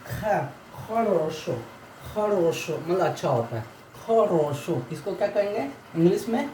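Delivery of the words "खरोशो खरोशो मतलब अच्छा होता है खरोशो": खरोशो said with a throaty "kh"; teacher models खरोशो, "kha-ro-sho"; pronunciation demo. Shown as a demonstration. Teacher teaches the Russian word for good, careful pronunciation. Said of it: "x for ख".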